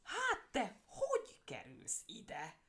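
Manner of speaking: high, then very slow stunned stammer. Acted. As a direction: stumble over the words in shock.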